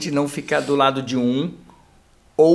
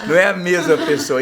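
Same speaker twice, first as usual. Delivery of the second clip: amused; 2 semitones higher, 5 dB louder than usual. Retold or imitated. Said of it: "você fala".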